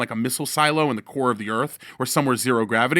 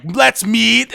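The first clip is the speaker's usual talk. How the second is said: higher, louder, blunt; a rapper's voice; 8 semitones higher, 5 dB louder than usual. Retold or imitated. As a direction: drop it like a command. The rapper's email.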